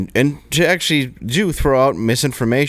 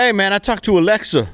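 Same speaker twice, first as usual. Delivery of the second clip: high, put-on voice; pitched-up caricature of the man; mock Sean King; 9 semitones higher than usual. Host mocking the activist he is discussing, high put-on voice. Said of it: "He's like".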